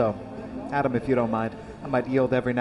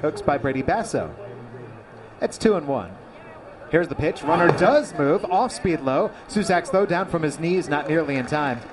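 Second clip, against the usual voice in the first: play-by-play. Acted. Live baseball call.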